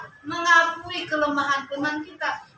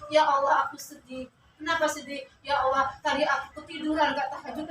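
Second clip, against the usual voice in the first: mock sad prayer; 5 dB quieter than usual.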